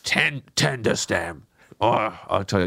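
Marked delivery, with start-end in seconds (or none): 0.0-1.5 Roy Kent voice. Pretend. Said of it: "name all the different types of broccoli in a Roy Kent voice".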